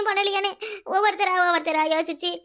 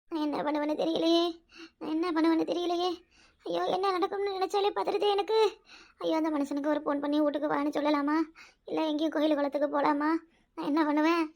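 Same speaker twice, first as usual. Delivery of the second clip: anxious fretting; 2 semitones lower, 5 dB quieter than usual. Acted. Worried woman alone, wondering what to do, quietly anxious. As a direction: fret quietly to yourself in dread. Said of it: "ஏன் அப்படி பதற".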